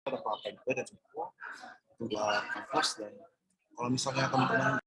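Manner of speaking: words breaking up online; bad connection. Real, not acted. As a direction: voice dropping out on a weak signal. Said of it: "We lost him".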